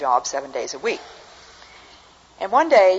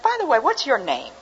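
lightly voiced old lady, higher pitched; a hint of a curious old lady; little old lady; 10 semitones higher than usual. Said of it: "a little old lady".

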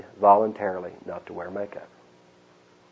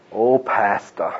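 slow, quieter "Oh, pastor" trailing off; softer fawning echo; 3 semitones lower, much slower than usual. Retold or imitated. Preacher repeating the flatterer's greeting, slow and soft. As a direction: let the flattery melt away. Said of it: "To my face".

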